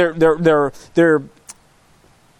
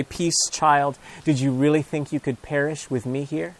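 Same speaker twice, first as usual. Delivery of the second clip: tender reassurance; 6 semitones lower, 7 dB quieter than usual. Acted. Jesus comforting a frightened child.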